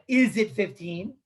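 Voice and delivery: slow question, "fifteen" rising at the end; asking intonation. Acted. Teacher quoting the man asking his fellow, "fifteen" rising as a question. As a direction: draw out "Is it fifteen" as a query. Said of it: "He's asking a question".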